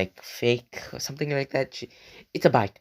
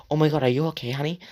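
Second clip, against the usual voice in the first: higher, worried motherly concern; caring mom; 5 semitones higher, much faster than usual. Retold or imitated. Friend's mom seeing the bleeding kid, worried caring voice. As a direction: fuss over the kid like a kind mom.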